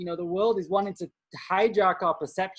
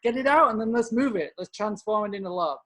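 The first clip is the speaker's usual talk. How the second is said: urging release; 3 semitones higher than usual. Retold or imitated. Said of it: "And it's just like".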